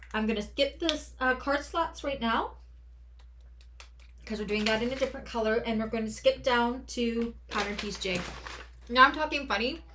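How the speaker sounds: talking around a hard candy; words slurred by a candy in the mouth; mouth full. Real, not acted. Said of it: "'cause I'm eating a candy and it's making me drool".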